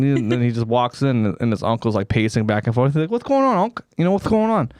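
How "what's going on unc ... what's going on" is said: high-pitched mock nephew voice; high, hammy nephew questioning his uncle. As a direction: play a puzzled nephew, pitched up. Acts nephew greeting his pacing uncle.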